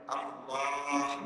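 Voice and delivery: "আল্লাহ" drawn out slowly, closing on a small h; audible final h. Shown as a demonstration. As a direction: stretch "আল্লাহ" softly and release the final h. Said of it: "শেষে একটা ছোট হা আছে". ("আল্লাহ" টেনে, শেষে ছোট হা স্পষ্ট)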